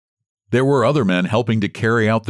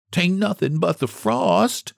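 reassuring herself; 10 semitones higher, slower than usual. A narrator's reading. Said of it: "she kept saying to herself".

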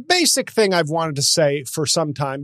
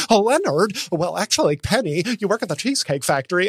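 Sheldon imitation; 2 semitones higher than usual. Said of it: "talked like this in interviews".

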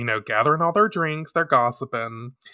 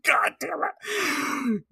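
normal talking voice

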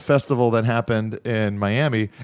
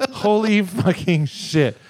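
mild imitation; 5 semitones higher, slower than usual. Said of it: "Mary would do when".

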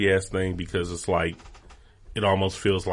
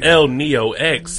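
ring announcer call; 7 semitones higher, 7 dB louder, much slower than usual. Pretend.

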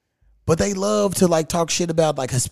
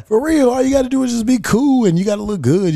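laughing through words; 9 semitones higher, 4 dB louder than usual. Real, not acted. Still laughing after joke.

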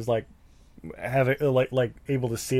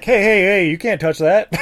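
shouting cop; 7 semitones higher, 7 dB louder than usual. Retold or imitated.

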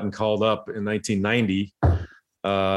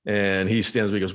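ordinary delivery

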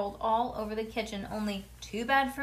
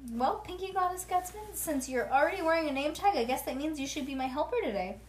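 put-on higher, lilting grown-up-to-child voice; sweet, playful offer, pitched up; friendly indulgence; 6 semitones higher than usual. A narrator's reading. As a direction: humour a proud little kid. Friendly hairdresser humours the child.

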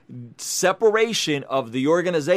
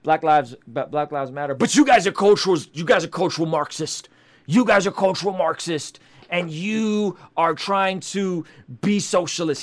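mock heated opponent. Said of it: "And he also didn't say".

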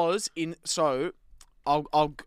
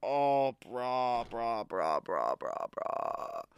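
mortified groan; 3 semitones lower, much slower than usual. Real, not acted. Groaning at cringe.

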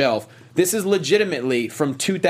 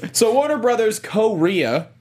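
slow, giggling through the words; laughing; 6 semitones higher than usual. Real, not acted. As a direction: try to talk through laughter. Laughing after the bit.

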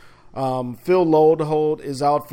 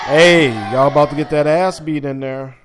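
mock shout at the kids; 5 dB louder than usual. Yelling jokingly at the booing kids.

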